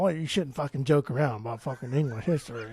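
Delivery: jokey put-on English accent; mock English accent. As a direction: play an offended Englishman lightly. Mock Englishman after accent bit.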